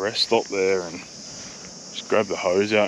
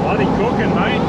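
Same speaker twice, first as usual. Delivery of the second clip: put-on Aussie accent; 12 semitones higher, 5 dB louder than usual. To camera in the heat, asking if he sounds Aussie: hammed-up Aussie accent. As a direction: lay on the Aussie accent, mate rising. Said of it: "Do I sound like an Aussie man?".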